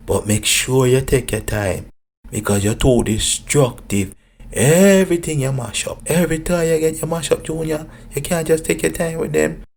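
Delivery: loud and bossy mum; loud nagging mother; loud scolding mother. Acted. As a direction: belt it out, nagging her son.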